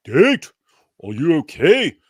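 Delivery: loud, offended rebuke; indignant reply. Retold or imitated. Debater rebuking a woman's question, loud and offended. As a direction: scold the questioner like an affronted debater. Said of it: "Muhammad Hijab replies".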